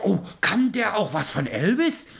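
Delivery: light up at the idea; excited father. Retold or imitated. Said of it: "Er sagt".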